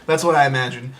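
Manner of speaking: eerie alien noise. Shown as a demonstration. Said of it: "I could do a little alien noise for you".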